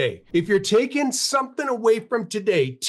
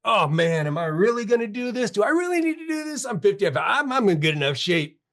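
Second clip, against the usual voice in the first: mock reluctant whine; 2 semitones higher than usual. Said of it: "Guess what I was doing at five forty-five A M?".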